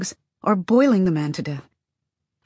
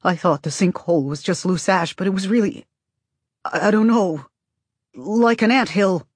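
hollow voice. Acted. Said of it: "talking in his hollow voice".

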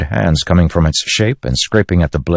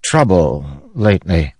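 high, cool regal voice; a queen looking down on everyone; high, icy queen dismissing a traitor; haughty queen; 6 semitones higher than usual. Acted. Queen speaking to Kaladin.

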